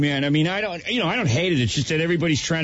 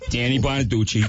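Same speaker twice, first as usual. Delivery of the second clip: electrolarynx voice; 4 semitones lower than usual. Shown as a demonstration. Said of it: "repeat after me".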